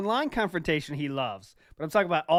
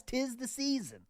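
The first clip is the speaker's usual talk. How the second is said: high, slow, softer sing-song; mock-festive; 8 semitones higher, 6 dB quieter, slower than usual. Host repeating it to the guys, mock-festive. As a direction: draw it out high, playfully festive.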